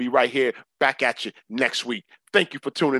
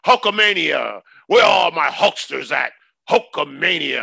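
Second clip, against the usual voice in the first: hype shout; 2 semitones higher, 6 dB louder than usual. Acted. Hyping wrestling.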